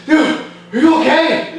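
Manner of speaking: high and slow, laughing while voicing the friend; mock the worried buddy with a laugh; laughing imitation of buddy. Buddy runs over worried.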